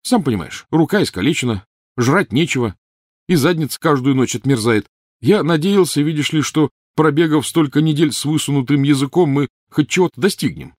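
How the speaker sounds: bitter complaint. A narrator's reading. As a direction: complain loudly, sour and fed up.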